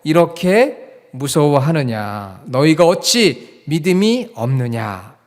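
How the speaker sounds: slow, measured, projected verse reading; group scripture reading. Shown as a demonstration. Pastor reads the memory verse together with congregation, slow recitation. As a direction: lead the congregation word by word. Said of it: "한번 같이 읽어보겠습니다".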